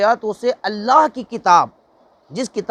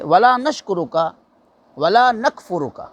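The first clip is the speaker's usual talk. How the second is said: Quranic recitation. Shown as a demonstration. Teacher reciting the Dua-e-Qunoot to show how it is read. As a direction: recite وَلَا نَكْفُرُكَ in a measured chant. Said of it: "پڑھتے ہیں".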